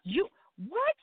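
slow, drawn-out mock shock from mom; a hint of a stunned mother; mom's shocked disbelief. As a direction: play the stunned mother, dragging it out. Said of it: "She said".

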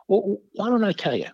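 a hint of a teasing old Jesuit; gentle priest voice.

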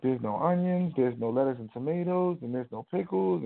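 retold tearful complaint, lightly acted; imitated bawling complaint. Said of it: "just starts bawling".

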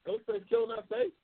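can't believe what he just read; real disbelief, pitch jumping way up; incredulous. Real, not acted. Reading a chat comment, disbelieving.

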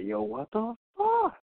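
high, drawn-out disbelief; stunned outburst. Retold or imitated. Fantasy player suddenly breaks out, stunned disbelief. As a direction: react like the player just shocked you. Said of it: "You just be like".

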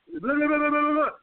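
high-pitched mock gibbering; rapid mocking babble on a high pitch; excited babble. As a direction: imitate someone tripping over words in excitement. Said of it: "You, you sound excited".

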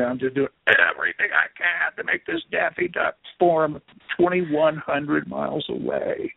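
mock strain of all-out effort; hammed-up effortful squeeze; straining hard. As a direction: push it out as if straining to move something by willpower. Acting out straining to concentrate.

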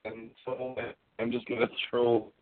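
mic cutting in and out; words dropping out on a bad connection; glitching audio. Real, not acted. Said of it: "Your, your, your mic's not working there".

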